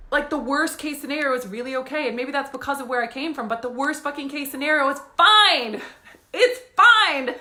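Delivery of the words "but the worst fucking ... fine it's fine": emphatic. Real, not acted. Defiant reassurance.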